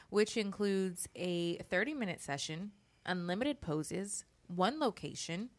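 polished, professional ad read; sponsor voice. Real, not acted. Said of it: "I gotta get my sponsor voice like you. You are so professional".

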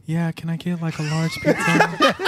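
lightly put-on professional phone voice; mock a friend's polite ordering voice; imitated professional voice. Host mimicking her friend ordering pizza, mock professional voice. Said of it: "he'd be like".

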